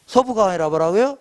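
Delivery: ordinary delivery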